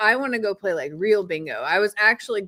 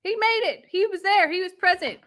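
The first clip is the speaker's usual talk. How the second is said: mock old man; 9 semitones higher than usual. Wife mocking the old man's walk.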